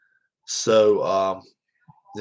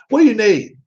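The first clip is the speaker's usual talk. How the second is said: loud, higher, impatient bark; gruff impatience; 8 semitones higher, 4 dB louder than usual. Retold or imitated. Dad answering his son's call, loud impatient bark. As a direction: snap it like he's busy. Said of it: "the way he said it".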